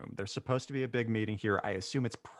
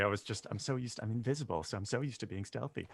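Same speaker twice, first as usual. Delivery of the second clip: quiet; 7 dB quieter than usual. Real, not acted. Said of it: "You're a little quiet".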